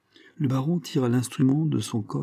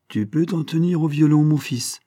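higher, lightly acted smiling voice; 6 semitones higher, 4 dB louder than usual. A narrator's reading. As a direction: speak to a pupil with a smile. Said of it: "dit en souriant". (dit en souriant, voix plus aiguë)

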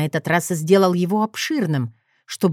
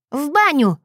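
sharp high barked retort; 7 semitones higher than usual. A narrator's reading. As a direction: bark it out at him. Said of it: "рявкнула Катька". (рявкнуть)

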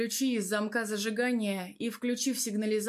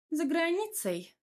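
higher-pitched woman's voice with a smile; lightly smiling, raised voice; 9 semitones higher than usual. A narrator's reading. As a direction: answer with a smile, pitch lifted. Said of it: "улыбнулась Тамара".

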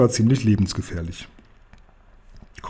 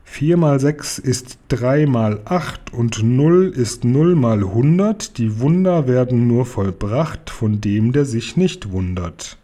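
slow, measured incantation; murmured spell; slower than usual. Acted. The chief conjuring the wardrobe, slow murmured incantation. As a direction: chant it like a magic formula, slowly. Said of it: "Dann murmelte er".

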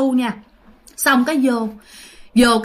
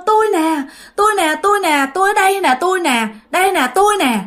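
high, imitated tearful insistence; lightly acted weeping cry; mock crying plea; 6 semitones higher than usual. Eldest uncle insists to the family, imitated crying plea. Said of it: "lúc đó là cứ khóc".

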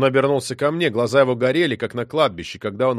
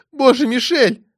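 high, loud panicked cry; 12 semitones higher, 6 dB louder than usual. Acted. Anna, choking in the smoke, cries to Michel in panic.

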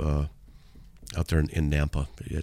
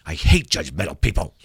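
ironic demo; 3 semitones lower than usual. Shown as a demonstration. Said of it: "Like that".

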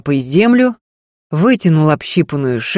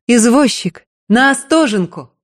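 calling a cabman, higher; 6 semitones higher than usual. Acted. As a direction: call out down the lane. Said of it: "донёсся её голос".

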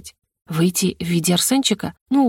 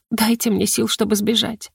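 plain reading voice

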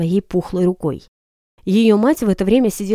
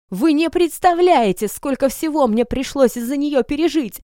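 put-on drunken outburst; 6 semitones higher than usual. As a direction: wail it out, slurring. Drunk Milly complaining to sheriff. (пьяная жалоба)

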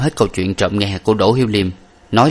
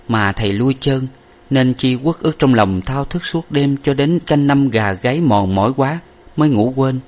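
put-on young lady voice; 5 semitones higher than usual. Young lady answers master.

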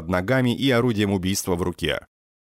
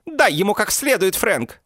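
put-on high, loud, shrill girlfriend cry; Mandy's shrill shout; 13 semitones higher, 4 dB louder than usual. A narrator's reading. Mandy shouts at Frank, egging him on, high and loud. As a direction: yell it up high and sharp like a trashy girlfriend.

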